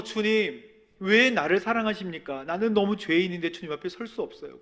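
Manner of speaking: retold tearful prayer. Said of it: "엉엉 울면서".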